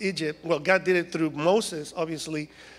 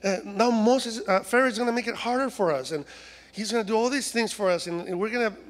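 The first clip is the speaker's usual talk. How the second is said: higher-pitched whiny mock complaint; whiny complaining; 4 semitones higher than usual. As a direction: grumble like a put-upon crowd. Acts out Israelites complaining to Moses.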